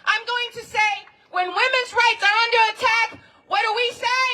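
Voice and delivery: call-and-response leader. Acted. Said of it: "When I raise my hand like this".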